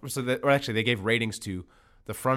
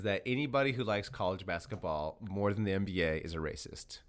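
whispered punchline; 6 semitones lower, 10 dB quieter than usual. Real, not acted. Dropping a provocative theory.

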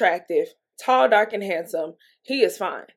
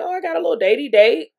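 quick, bubbly and a bit higher; excited; 6 semitones higher, faster than usual. Retold or imitated. Telling viewers about her new date, giddy and fast. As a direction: gush about the upcoming date. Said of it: "So I'm excited".

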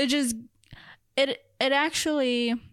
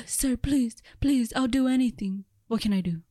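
emotionless pleading, lightly voiced; bad acting. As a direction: beg with no emotion at all. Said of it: "no emotion whatsoever".

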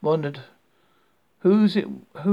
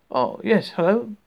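raised voice, calling over; lifted, louder answering call; 5 semitones higher, 5 dB louder than usual. A narrator's reading. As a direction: call back with a louder hello. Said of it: "he called".

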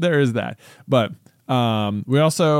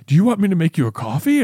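put-on quick, higher kid offer; eager kid voice; 5 semitones higher, faster than usual. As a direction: rush the offer like an eager child. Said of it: "he's like".

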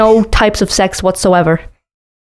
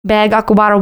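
imitating Midwest bag. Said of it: "you also say, it's mostly bag".

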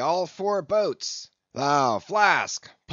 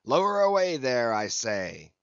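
thundering shout; 5 dB louder than usual. A narrator's reading. Captain repeating his order to the crew, thundering. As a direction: bellow the command across the deck. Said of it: "Such was the thunder of his voice".

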